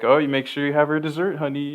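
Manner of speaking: doting dad voice. Retold or imitated. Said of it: "Nathan Lane is always like".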